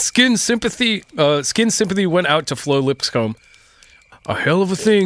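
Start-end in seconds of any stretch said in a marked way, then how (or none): 4.3-5.1 Skins voice. Retold or imitated. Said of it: "in Skin's voice".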